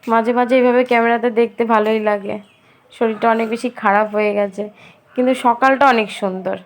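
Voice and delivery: talking with a toothbrush in mouth; while brushing teeth. Real, not acted. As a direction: speak while brushing, words a bit muffled. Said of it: "brush করতে করতে". (দাঁত brush করতে করতে কথা)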